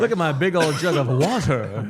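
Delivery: loud, slow mock Philly accent. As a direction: ham up the Philly accent on "water". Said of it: "mocking Philly accent".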